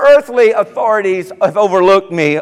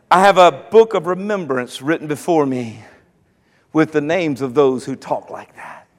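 hushed God voice; 7 semitones lower, 6 dB quieter than usual. Acted. God's voice fades to hush.

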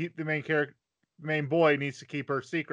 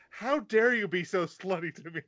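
mildly raised, mock-indignant scolding; berating; 4 semitones higher than usual. Girl scolding the vampire attraction, mock berating. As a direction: play at scolding, pitched a little up. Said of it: "she berates him back into his coffin".

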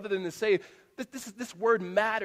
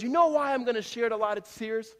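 raised-pitch retelling of an impassioned coach; 4 semitones higher, 4 dB louder than usual. Retold or imitated. Coach to losing Little League boys on his knee, mildly impassioned. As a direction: imitate a coach's heartfelt locker-room speech, lightly. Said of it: "he is just passionately communicating them".

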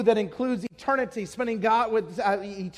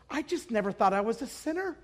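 subdued realization; 5 dB quieter than usual. Retold or imitated. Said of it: "her whole demeanor changed".

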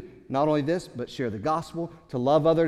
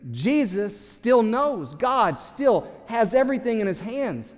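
raised declaration; 6 semitones higher than usual. Real, not acted.

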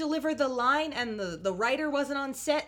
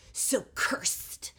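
whispered, voice dropped away; mock whisper; 4 dB quieter than usual. Husband mimicked, mocking his weird line, whispered. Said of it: "and goes".

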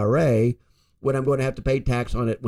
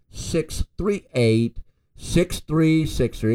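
slow dictation; 3 semitones higher, much slower than usual. Real, not acted. Reading out phone number.

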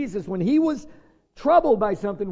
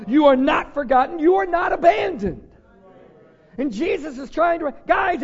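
louder and higher with each "You are not"; preaching at full force; 5 semitones higher, 7 dB louder than usual. Acted. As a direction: rise to a fiery pulpit climax. Preaching climax, building to shouts.

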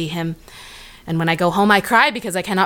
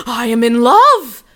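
gasping rapture; 3 semitones higher, 5 dB louder, slower than usual. Acted. Gasping realisation of love.

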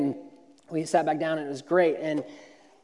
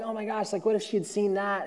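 anxious inner worry; 3 semitones higher, 6 dB quieter than usual. Retold or imitated. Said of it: "super stressed".

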